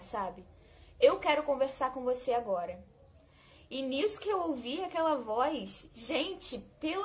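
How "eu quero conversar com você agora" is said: loud, commanding voice of authority; authoritative voice. Retold or imitated. A voice in the dark room demanding to talk, loud and commanding. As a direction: speak down to her with firm command. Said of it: "Falava com muita autoridade".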